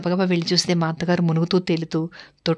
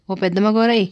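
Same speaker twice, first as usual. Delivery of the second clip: calling out; 2 semitones higher than usual. Retold or imitated. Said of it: "పెద్ద కేకలేశాడు".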